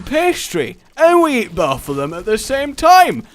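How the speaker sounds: high-pitched, impassioned pitch; sausage roll inventor. Acted. Inventor proposing pig wrapped in pastry, excited. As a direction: build to a loud, triumphant big idea. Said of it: "someone who dared to go".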